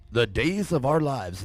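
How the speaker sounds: drawn-out, mock-dramatic title read; slow and grandly hammed-up; mock soap-opera announcer. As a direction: intone it like a soap opera intro.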